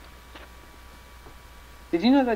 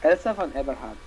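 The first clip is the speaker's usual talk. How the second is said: name said in a lightly put-on old Mexican lady accent; character's accent; 4 semitones lower, 4 dB louder than usual. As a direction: give the character's name in a hint of her accent. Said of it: "Say your character's name for me".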